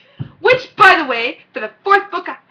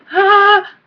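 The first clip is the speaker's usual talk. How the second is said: excited squeal; 8 semitones higher, 10 dB louder than usual. Real, not acted. Freaking out over the book.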